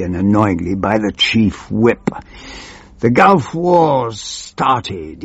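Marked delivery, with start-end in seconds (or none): 3.0-5.2 slow, drawn-out triumphant announcement; triumphant cry. Acted. Chief Whip announcing the war, slow and triumphant. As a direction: savour it like a gleeful herald. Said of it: "he cried triumphantly".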